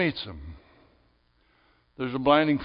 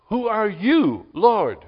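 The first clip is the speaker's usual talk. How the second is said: Saul asks, higher and louder, in awe; awed question; 6 semitones higher, 4 dB louder, slower than usual. Acted. Preacher voicing Saul on the road, awed. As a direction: lift it up in wonder.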